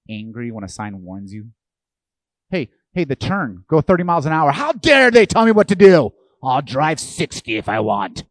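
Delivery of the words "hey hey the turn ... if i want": mock indignant yell, much higher and louder; outraged driver. Preacher mocks a driver angry at signs with a hammed-up yell. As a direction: ham up a driver offended by a speed sign.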